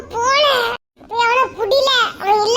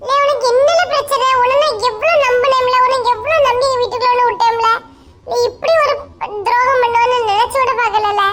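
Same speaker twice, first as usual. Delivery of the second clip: angry scolding. Acted. Brother scolds runaway friend.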